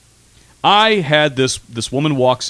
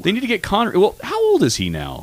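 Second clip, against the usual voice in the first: put-on Scottish accent; 10 semitones higher than usual. Scottish character talks Connery.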